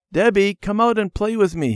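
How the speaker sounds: put-on high, loud child's call. A narrator's reading. Randy calling Debbie out to play, calling out. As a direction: call a playmate from across the house. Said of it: "he called".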